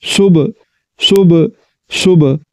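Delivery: सुब with a sharp bounce on the final b; with a jolt. Shown as a demonstration. Teacher demonstrating qalqala on सुब to students. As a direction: snap the b of सुब like a qalqala echo. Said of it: "झटके के साथ पढ़ना है".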